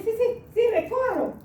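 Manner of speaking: imitating the man agreeing; quoted reply. Man answering in retold quarrel. (imitando al hombre, más agudo)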